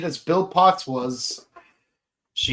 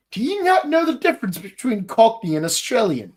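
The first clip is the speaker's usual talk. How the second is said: quick, higher-pitched disbelief; exasperated question; 5 semitones higher, faster than usual. Acted. Podcaster questioning those who mistook Cockney for Australian, mild exasperation. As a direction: ask it fast, mildly incredulous.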